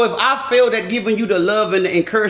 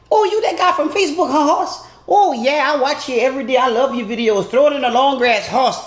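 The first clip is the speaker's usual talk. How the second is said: much higher, gushing woman's voice; smitten fan; 4 semitones higher than usual. Retold or imitated. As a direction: gush over him like a fan who recognizes him. Woman fan recognizing him.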